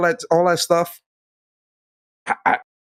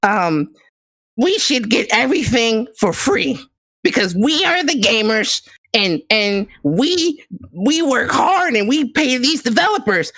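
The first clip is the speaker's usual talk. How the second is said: higher, smarmy politician pitch; gaming politician voice; 3 semitones higher than usual. Pretend. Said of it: "Let me put my gaming politician voice on".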